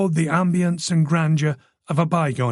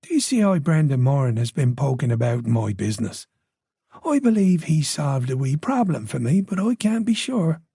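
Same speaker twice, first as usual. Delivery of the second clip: put-on Irish accent. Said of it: "the tone reasonable, conversational".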